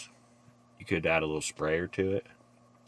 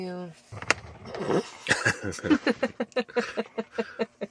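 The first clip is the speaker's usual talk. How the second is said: squeaky giggle burst; a high breathy giggle; high laugh. Real, not acted.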